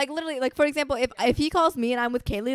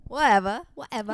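put-on British accent. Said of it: "Should we start talking in British accents".

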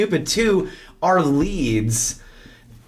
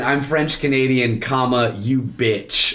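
action-hero one-liner; 2 semitones lower than usual. Retold or imitated. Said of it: "might as well have been".

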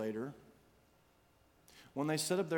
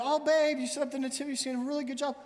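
higher, mock sweet praise; pleased wife; 9 semitones higher, faster than usual. Wife praising her husband's nativity, mock sweet and higher. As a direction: gush a little at the husband. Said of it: "his wife came out of the kitchen and ... said".

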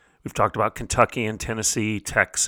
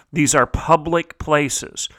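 public leaned on, slower, each word spaced; stress on public; slower than usual. Shown as a demonstration. Host hammering home to parents: stress on public. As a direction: hit the word public hard and slow. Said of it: "I'm gonna emphasize the word public".

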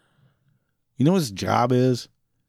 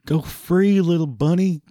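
sing-song mock owner; 9 semitones higher, 3 dB louder than usual. Mocking owner releasing snake.

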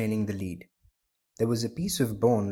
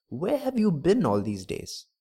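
raised-pitch, impatient question; eager questioning; 6 semitones higher than usual. A narrator's reading. Ribbon seller runs up to the blind man, unable to contain himself. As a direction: burst out asking, pitched up. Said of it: "could not contain himself".

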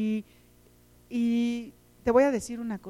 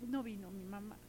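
put-on sad child; 3 semitones lower, 17 dB quieter than usual. Children whose mothers didn't come.

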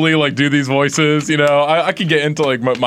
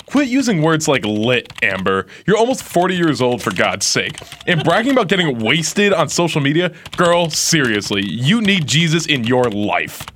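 Kat. Acted. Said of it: "you will be Kat".

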